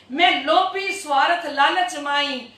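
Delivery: singsong scripture line; verse recitation. Real, not acted. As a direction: intone the verse with a rolling cadence. Reciting scripture verse between explanations.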